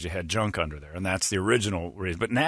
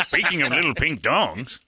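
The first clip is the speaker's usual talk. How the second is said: laughing through the line; slow and cracking up; 6 semitones higher, slower than usual. Shown as a demonstration. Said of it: "You gotta start that sentence over".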